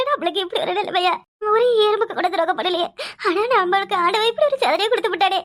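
acted tearful lament; hammed-up weeping; sobbing. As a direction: sob out a complaint against fate. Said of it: "இப்ப என்னத்துக்கு அப்படி குலுக்கி குலுக்கி அழுவுற?".

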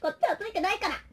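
soft, quick, gentle aside; soft reassurance. Acted. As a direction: reassure the plush quietly. Softly talking to plush. (小声で優しくなだめる)

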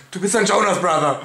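parody Twilight line. Pretend. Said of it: "Sag es, Bella".

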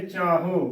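ਚਾਹੋ with a plain oral o ending; demonstrated wrong ਚਾਹੋ, bindi left out; common mispronunciation. Shown as a demonstration. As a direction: say ਚਾਹੋ without any nasal on the last vowel. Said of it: "ਕਈ ਕਿਵੇਂ ਉਚਾਰਨ ਕਰ ਦਿੰਦੇ".

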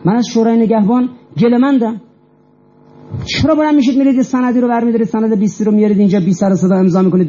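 insistent retold scolding, full of authority; authoritative rebuke. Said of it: "با چه اقتداری".

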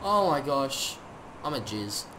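hushed, slowing disbelief; stunned awe. Real, not acted. Gamer stunned by a present, hushed awe. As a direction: let the voice sink, overwhelmed.

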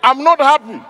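loud, badly acted anger; hammed-up annoyance. Auditioner trying to show judges anger, loud badly faked annoyance. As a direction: declare displeasure like a poor auditioner. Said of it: "show me that you're angry".

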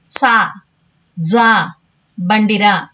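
సా as tsa, జా as dza, then బండిరా; old letter sounds. Shown as a demonstration. Teacher answering how the old letters sound, సా as tsa, జా as dza. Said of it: "వీటిని ఎలా పలుకుతాం అంటే".

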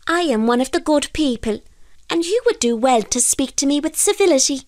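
high-pitched little fairy voice; haughty fairy. A narrator's reading. Fairy demands civility from the fisherman, haughty. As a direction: speak as an offended, dignified fairy. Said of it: "replied the fairy".

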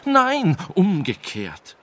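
high, loud protesting cry; cries out. A narrator's reading. Wise man protesting the king's logic, loud high cry. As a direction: shout him down in panic. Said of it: "rief der Weise".

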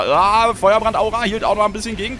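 straining shout. Real, not acted. Straining to hold the fight.

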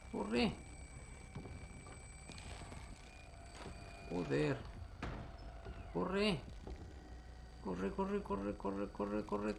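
panicked high urgent running; frantic whispered corre corre; being chased. Real, not acted. Fleeing a chasing enemy.

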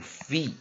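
fe as a drawn-out "fee"; long vowel. Shown as a demonstration. Teacher showing the vowel in feast, long fe. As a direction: stretch fe with a long "ee". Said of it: "前面拉成长母音fe".

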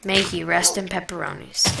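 quiet, mock mournful farewell; mock solemn eulogy. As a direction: play it like a fake funeral. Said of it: "a proper remorseful service".

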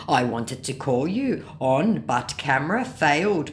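lightly voiced apologetic scammer; mock a scammer's plea, drawn out at the end. Scammer begging for a gift card, mildly mock pleading.

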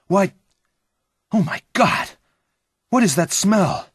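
high, loud cry of disgust; horrified exclamation. A narrator's reading. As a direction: exclaim in shock at a stench. Friend discovers blood and stench.

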